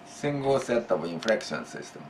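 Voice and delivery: soft repeated phrase for emphasis. Shown as a demonstration. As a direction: echo the phrase softly to drive it home.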